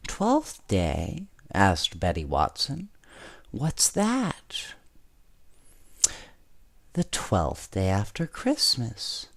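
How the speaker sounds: put-on gentle storybook narration for kids; bedtime story reading. A narrator's reading. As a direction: read it like a bedtime story to children. Reads a bedtime story aloud.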